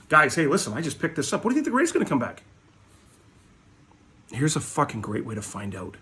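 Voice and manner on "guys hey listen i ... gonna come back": higher, rushed mock newbie; mock eager poster. Mocking posters begging for free appraisals, rushed high voice. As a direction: gush it like a clueless beginner. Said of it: "Stop posting cards on the fucking internet and say".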